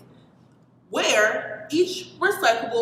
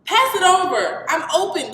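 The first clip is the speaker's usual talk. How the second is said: put-on boy calling for the ball, raised and high; yelled; 7 semitones higher, 5 dB louder than usual. A narrator's reading. Kid yelling to teammates for the pass, loud call. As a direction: shout for the pass across the yard. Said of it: "Christopher yelled".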